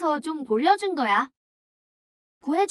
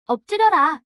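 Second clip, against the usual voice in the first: louder, a forceful command to kneel; commanding shout; 6 dB louder than usual. Acted. Warrior shouting at a beaten foe to bow down. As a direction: bellow the order down at him.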